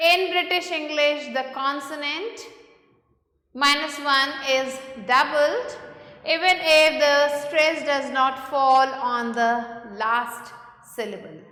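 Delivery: slow, deliberate reading of a textbook rule; measured classroom dictation pace; reading rule aloud. Acted. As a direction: read each phrase out slowly for the class. Reads the spelling rule aloud.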